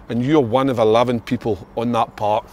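a hint of a fiery pep talk; inspirational speech. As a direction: rouse the nation before kickoff. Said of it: "put Big Kev on the spot".

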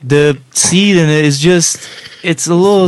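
mock smooth southern twang; smooth southern accent. Podcast host describing fruit as the southern friend, smooth southern accent. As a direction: keep up the playful southern accent. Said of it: "Lee has a smooth ass accent".

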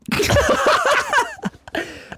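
very high, long laugh; real high-pitched laughing fit; laughter. Real, not acted. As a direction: crack up helplessly. Laughing at the story.

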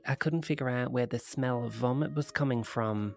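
lightly put-on Australian accent. Woman recounting a UFO encounter, in a rough Australian accent. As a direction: read it as an Australian witness. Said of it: "doing single-handedly to the Australian accent".

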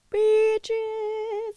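high, held note on the word; high singsong gloat. Real, not acted. Host bragging about jetting off to Thailand, high singsong. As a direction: sing it out high and long.

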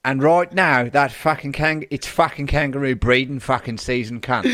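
put-on Australian accent drifting into Brummie; sweary Aussie rant that wanders into the Midlands; Australian slipping Midlands. Reading the carer's quote, Australian accent slipping into Brummie. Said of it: "You went Midlands in the middle of that".

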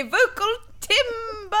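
slow, high drawn-out cry; bellowed timber call. Acted. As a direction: stretch it out like a lumberjack. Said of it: "They say".

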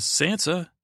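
high, lilting mock summons; drunken cruel queen. Drinking queen summons the girl, imitated drunken cruelty. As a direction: call her name like a tipsy queen. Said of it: "her drunken, mm, cruelty".

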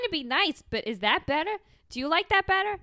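shouting reenactment of a reality show fight; acted fight. Friends reenacting a TV fight, yelling at each other. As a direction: yell it like a reality TV brawl.

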